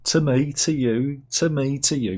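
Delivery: a hint of Paul Chuckle calling it out; Chuckle Brothers catchphrase. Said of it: "Paul Chuckle".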